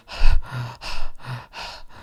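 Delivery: heavy, voiceless puffing breaths; out-of-breath panting. Retold or imitated. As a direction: imitate gasping to catch your breath. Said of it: "I find myself out of breath. I'm going".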